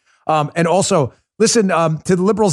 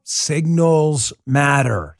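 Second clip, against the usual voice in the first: slow emphasis; much slower than usual. Acted. Host repeats slogan for emphasis.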